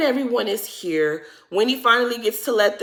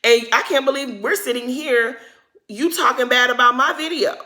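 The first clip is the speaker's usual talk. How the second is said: retold annoyance; 4 semitones higher than usual. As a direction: imitate an annoyed friend, pitched up a bit. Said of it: "Candace is very much annoyed".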